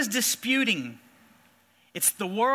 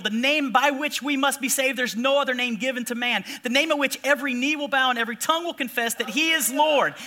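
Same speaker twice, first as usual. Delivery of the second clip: preaching declaration; 3 semitones higher than usual. Retold or imitated. Umpire proclaiming to the jeering crowd, building shout.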